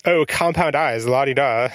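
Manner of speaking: slow, teasing mock-impressed tone. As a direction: make fun of the fancy term. Teasing a co-host's technical term.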